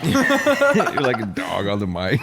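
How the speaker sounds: laughing. Real, not acted. Laughing at friend's breathing.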